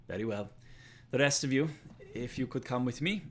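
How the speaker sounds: guard woman calling the others to follow; commanding guard woman. Acted. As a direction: take charge of the room as the guard. GM voices guard woman giving orders.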